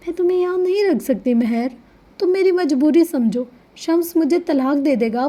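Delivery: insist, begging her to understand; emphatic pleading. A narrator's reading. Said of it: "وہ اپنی بات پر زور دے رہی تھی". (زور دے کر التجا کرتے ہوئے)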